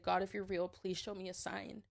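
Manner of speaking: hushed prayer. Retold or imitated. Retold tearful prayer on floor.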